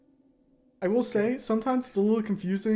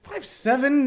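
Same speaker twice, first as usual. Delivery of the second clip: loud call; 6 semitones higher, 6 dB louder than usual. Acted. Shouted calling of name.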